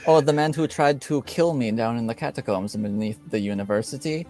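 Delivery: lightly voiced lord, quick indignant reply; a touch of an accented nobleman; Lord Vargas in character. Vargas answering his accuser, lightly indignant lord.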